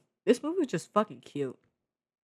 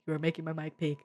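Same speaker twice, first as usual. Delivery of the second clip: softer second take, brought down; quieter repeat; 6 dB quieter, faster than usual. Real, not acted. Reviewer calming down after peaking the mic, softer.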